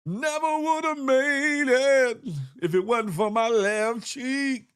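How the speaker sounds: hammed-up grateful speech; mock triumphant. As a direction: preach it like a victory speech. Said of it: "it was like".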